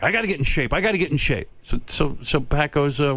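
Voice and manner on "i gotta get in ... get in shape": mildly heated, insistent repetition; angry retelling. Retold or imitated. Friend repeating his fitness resolve, mildly angry. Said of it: "he's angry".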